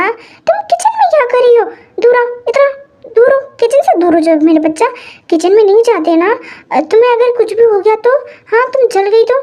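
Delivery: put-on high, alarmed fussing over the child; worried uncle. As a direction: shoo the kid out of the kitchen in a panic. Uncle panics seeing child in kitchen. (घबराए चाचा की ऊँची आवाज़)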